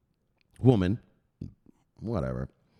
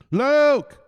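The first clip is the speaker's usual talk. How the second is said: much higher, loud name call; excited calling out; 13 semitones higher, 9 dB louder than usual. Real, not acted. Greeting viewer Luke, loud high call. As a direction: greet him like a hero.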